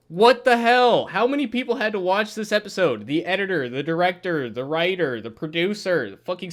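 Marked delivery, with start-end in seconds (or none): 0.1-3.1 loud, higher-pitched exasperated outburst; getting mad. Real, not acted. Reviewer fed up with the episode's makers, getting mad. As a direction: burst out in real exasperation. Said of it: "Dude, I'm getting mad".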